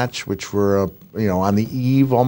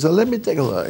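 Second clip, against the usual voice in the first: put-on Francois's French accent; 8 semitones higher, faster than usual. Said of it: "my terrible French and Italian accent".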